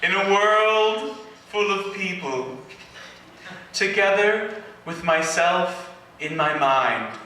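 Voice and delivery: hammed-up English accent, slow and mournful; a mock-tragic poem read in a put-on English accent; fake English accent. Poet reading his emo poem to the crowd in a fake English accent. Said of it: "if I do a fake English accent".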